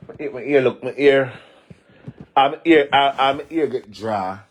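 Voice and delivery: excited cry. Real, not acted. Exclaiming about her ear.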